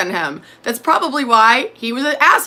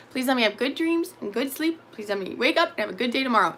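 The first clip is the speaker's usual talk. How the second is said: put-on childlike prayer; 7 dB quieter than usual. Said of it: "my prayer... very childish".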